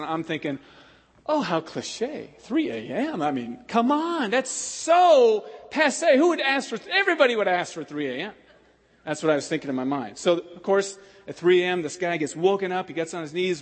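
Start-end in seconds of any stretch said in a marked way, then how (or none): 1.3-8.3 cynical scoff. Retold or imitated. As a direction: scoff at the cliché. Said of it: "in my cynicism".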